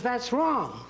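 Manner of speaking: mock teacher snapping at a child's drawing; teacher's correction. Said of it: "The teacher says".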